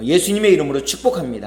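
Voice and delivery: quick, bright model of the greeting; blessing greeting demo. Shown as a demonstration. Pastor showing the congregation the blessing, quick. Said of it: "한번 축복하고 인사 나누도록 하겠습니다".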